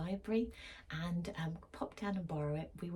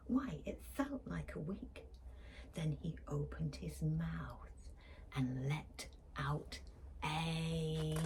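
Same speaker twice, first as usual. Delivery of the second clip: hushed storytime reading. A narrator's reading. Librarian reading to children, hushed storytime voice. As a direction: draw the children in, slowly. Reads rhyming picture book aloud.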